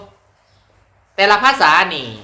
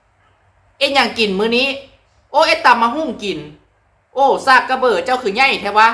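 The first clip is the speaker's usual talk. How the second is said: slow, higher Phu Thai dialogue; higher, slow Phu Thai dialect chat; 4 semitones higher than usual. Shown as a demonstration. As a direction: ask about dinner in Phu Thai dialect. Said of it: "อันนี้เป็นสำเนียงเว้าภาษา ภูไทย".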